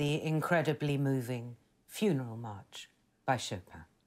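very low on-air broadcast announcer delivery. Announcing the next piece of music, in a BBC announcer voice. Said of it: "I'm just saying it like she's on the BBC".

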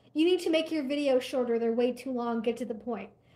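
usual speaking voice

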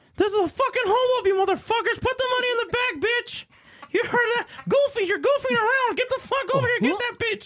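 very high, squeaky falsetto. Acting out a bank robbery on request: Mickey Mouse voice. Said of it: "Mickey Mouse sticking up a, um, bank".

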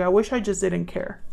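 ordinary talk, nothing marked

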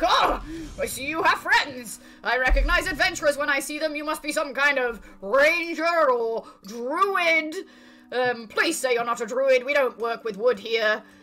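big hearty laugh under words, dwarf woman voice. Voicing a dwarf lady greeting the adventurers, laughing heartily. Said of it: "the dwarf lady like laughs heartily and is like".

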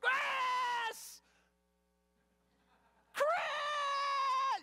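blood-curdling, very high, loud, drawn-out scream. Describing the wife upstairs calling the husband downstairs, retelling a blood-curdling scream. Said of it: "the blood-curdling scream".

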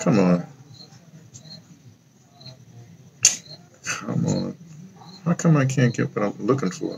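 fed-up, frustrated, exasperated muttering to oneself. Searching for something online and failing to find it: frustrated. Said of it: "I'm gonna say frustrated".

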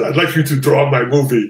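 put-on poor Greek accent. Recalling a man asking to have his movie drawn, in a terrible Greek accent as Panos Cosmatos. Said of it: "I'm going to do a terrible accent".

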